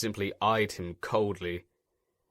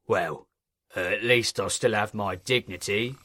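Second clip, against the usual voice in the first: sighing. A narrator's reading. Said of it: "he sighed".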